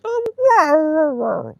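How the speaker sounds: high, loud mock husky whine; annoyed husky howl. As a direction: wail like a put-out dog, pitch sliding down at the end. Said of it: "like, annoyed".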